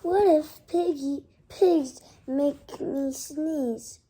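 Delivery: loud, alarmed Gerald, the last line slow; a child playing a panicked elephant; worried elephant voice. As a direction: cry out the worry, then slow down at the end. Reads Gerald's worried lines.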